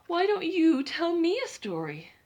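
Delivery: sleepy yawning question. Acted. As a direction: ask it mid-yawn.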